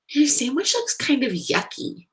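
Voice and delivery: blurted out. A narrator's reading. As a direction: let it burst out unfiltered. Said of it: "she blurted out".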